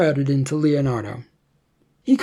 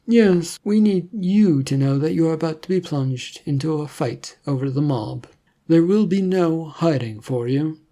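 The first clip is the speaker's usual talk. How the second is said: stern government agent; 3 semitones higher than usual. Acted. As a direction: lay down the hard truth. Agent warns Leonardo.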